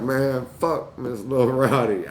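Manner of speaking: slow, mild mock defiance; defiant retort. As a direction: spit it out slowly like a kid talking back. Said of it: "I didn't say it like that".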